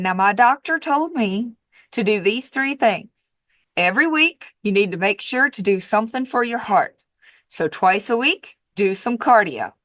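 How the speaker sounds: lightly imitated sweet Texas accent; a hint of sweet Texas twang. Neighbor passing on her doctor's advice, in a sweet Texas accent. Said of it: "in a very sweet Texas accent".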